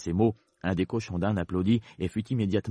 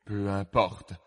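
lower, understated relief; very relieved; 3 semitones lower, 4 dB quieter than usual. Acted. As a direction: let it drop, mildly relieved. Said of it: "dit d'un air très soulagé". (air soulagé, voix un peu posée)

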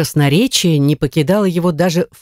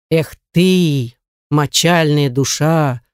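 slow, low contempt; understated scorn from a superior; scornful; 4 semitones lower, slower than usual. Acted. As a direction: drag out the mild insult, pitched low. Butler scolds the complaining cobbler.

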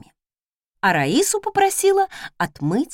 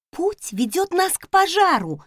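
stubborn maid; 9 semitones higher than usual. Acted. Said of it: "заупрямилась она".

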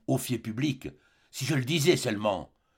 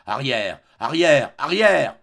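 building outburst; 8 dB louder, slower than usual. Acted. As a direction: push her away harder with each word. Othello repousse Desdemona. (de ferme à cri furieux, plus fort et plus aigu)

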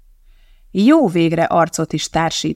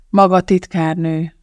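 sighing; 4 dB louder than usual. Acted. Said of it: "sóhajtotta Donatti".

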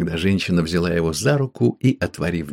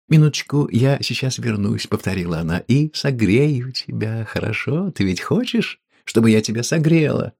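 flirty; 3 semitones higher than usual. Acted. Woman seductive.

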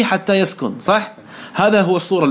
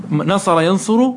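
slow demo; much slower than usual. Shown as a demonstration. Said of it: "انظر نون".

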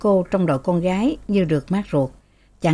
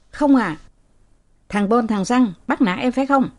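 flustered servant; 5 semitones higher than usual. Acted. Servant nervously answers master.

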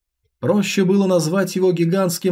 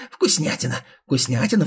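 ghoul voice; 2 semitones lower than usual. Acted. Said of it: "Пронзительный и резкий голос".

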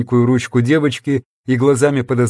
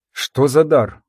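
plain reading voice

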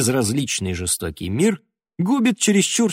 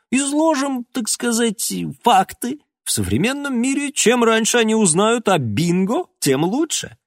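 mock lecturer; 12 semitones higher than usual. A narrator's reading. Mock-serious explanation about bingo.

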